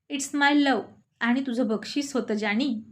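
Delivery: a sly, slow flirt; slow teasing wink. Acted. Boss winking at his assistant, slow and teasing. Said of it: "हळूच त्याला डोळा मारत म्हणाला".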